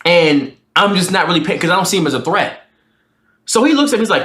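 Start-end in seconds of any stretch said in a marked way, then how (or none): none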